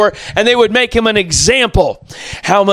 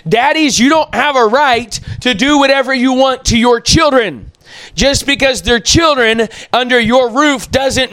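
preaching shout; 4 semitones higher than usual. Real, not acted. Preacher rebuking fathers.

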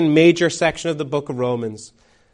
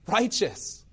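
high, softer echo of the cry; hushed echo; 4 semitones higher, 7 dB quieter than usual. Acted. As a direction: repeat it softly, pitched up, as if astonished. Echo of the startling courtroom cry.

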